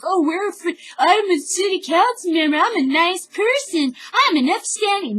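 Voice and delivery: high, prissy mock voice of a smug official; mocking council member. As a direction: pitch it way up, playing the fake nice politician. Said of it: "standing there like".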